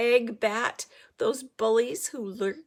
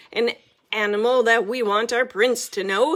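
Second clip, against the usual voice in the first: loud, booming royal scorn; thundering king; 11 dB louder, faster than usual. A narrator's reading. King condemning the girl, thundering loudly. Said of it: "thunders the king".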